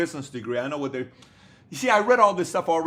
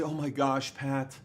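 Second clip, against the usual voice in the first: imitating a sulky rookie entrepreneur telling his sob story, rising to a high loud whine; mocking whiny babypreneur; 6 semitones higher, 3 dB louder than usual.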